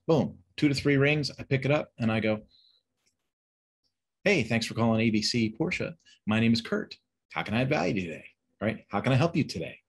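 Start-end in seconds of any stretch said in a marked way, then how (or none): 4.2-9.8 bright, eager welcome to the caller; happy phone greeting. Shown as a demonstration. Kurt answering a customer call at the dealership, cheerful. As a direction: smile while you answer the phone. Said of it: "You can hear the inflection".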